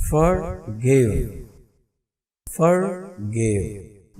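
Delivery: फॉरगिव slowly split, गिव held long; short फॉर, then a drawn-out गिव; slow फॉरगिव with weight on गिव; stress shifted to second syllable. Shown as a demonstration. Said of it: "stress इधर shift हो गया".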